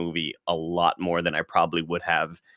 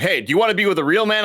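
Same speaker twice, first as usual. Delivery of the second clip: mock villain taunt; 10 semitones higher, 4 dB louder, much faster than usual. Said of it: "And he's like".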